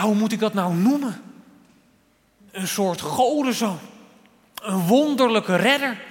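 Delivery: groping for words in wonder; astonished king. Acted. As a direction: act out a puzzled king growing amazed. Acts out the king's astonishment.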